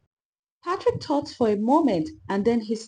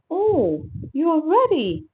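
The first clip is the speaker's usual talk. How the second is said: encouraging; 6 semitones higher, 5 dB louder than usual. A narrator's reading. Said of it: "Patrick said encouragingly".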